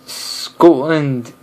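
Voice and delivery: "Scotland" with a sudden stop at the T; Scottish-style "Scotland", cut at the T; Scottish pronunciation. Shown as a demonstration. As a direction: halt briefly on the T in "Scotland". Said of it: "You stop suddenly after".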